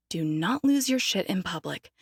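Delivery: low self-calming mutter under the breath; muttered to herself. Acted. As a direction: talk yourself down quietly. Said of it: "I take a deep breath".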